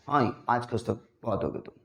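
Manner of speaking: deep, soft filmy baritone; Amitabh Bachchan impression. Teacher mimicking the film star to recall imitate. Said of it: "Amitabh Bachchan की क्या उतार रहा है".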